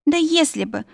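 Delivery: high moan, feigning agony; pained moaning. A narrator's reading. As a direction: groan it out high, as if in pain. Heroine feigns agony to captor. (стонет, изображая боль)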